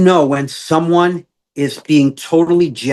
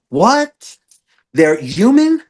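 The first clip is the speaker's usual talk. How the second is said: sudden realization; 6 semitones higher, slower than usual. Real, not acted. Therapist insight, light bulb moment.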